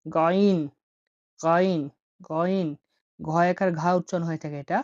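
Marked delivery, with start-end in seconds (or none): 0.1-2.7 গাইন with a gargled g from the throat; guttural ghain. Shown as a demonstration. Teacher repeats গাইন slowly, gargled throat g. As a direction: roll the g of গাইন at the back of the throat. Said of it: "গলা থেকে বের করতে হবে".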